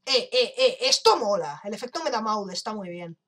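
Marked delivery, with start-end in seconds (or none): 0.0-1.6 loud, thrilled outburst; excited. Real, not acted. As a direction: cheer at the cool effect. Emocionado por el efecto. (emocionado y a gritos)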